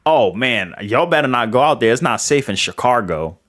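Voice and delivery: imitated Philly accent. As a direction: warn them in a Philly accent, "Shi-car-go". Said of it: "she grew up in Philly".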